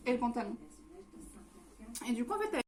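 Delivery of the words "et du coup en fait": words round a bite of food; chewing while talking; talking with mouth full. Real, not acted. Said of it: "je parle à bouche pleine".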